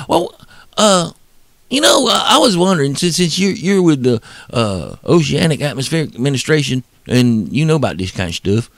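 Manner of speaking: hesitant Southern hick, starting high; redneck Southern voice. Retold or imitated. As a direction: stammer politely like a redneck Southerner. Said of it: "that's my redneck Southern voice".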